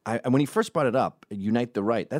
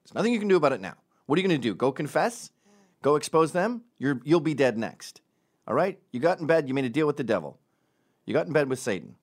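higher, louder stern self pep talk; mock pep talk; 5 semitones higher, 3 dB louder, faster than usual. Hillary scolding herself in the mirror, stern pep talk. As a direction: give yourself a firm talking-to in the mirror. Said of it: "She looks at herself in the mirror".

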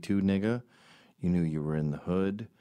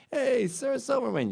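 much higher, louder mock fan shout; sarcastic fan call; 5 dB louder than usual. Heckling fan calls out to Sarah Silverman, mocking and loud. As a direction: sneer her name like a heckler.

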